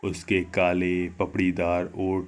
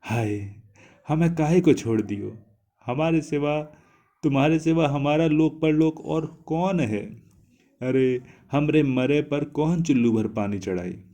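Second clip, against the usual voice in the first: sobbing lament; 6 semitones higher than usual. A narrator's reading. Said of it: "फपक फपक कर रोने लगी".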